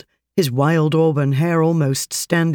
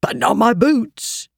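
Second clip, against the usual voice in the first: touch of pride; 7 semitones higher than usual. Acted. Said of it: "a hint of pride".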